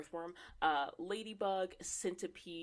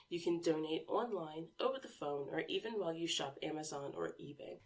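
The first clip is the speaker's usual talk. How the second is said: smooth sponsor read. Acted. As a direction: read it like a radio ad. Reads a sponsor ad.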